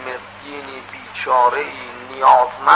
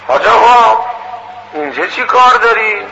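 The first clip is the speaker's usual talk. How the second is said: higher, louder astonished question; acted surprise; 6 semitones higher, 3 dB louder than usual. Brothel madam questioning an unexpected pious visitor, surprised. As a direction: voice a madam taken aback, pitched up.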